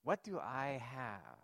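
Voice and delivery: slow question leaning on "I"; stress on I. Shown as a demonstration. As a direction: put the weight on "I" and draw it out. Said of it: "The emphasis now becomes".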